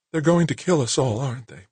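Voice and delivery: high, frightened woman's voice, catching at the end; choking voice. Acted. Claire asks Nick if they will die, choking up. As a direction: let the fear close the throat on the question. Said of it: "her voice choking in her throat".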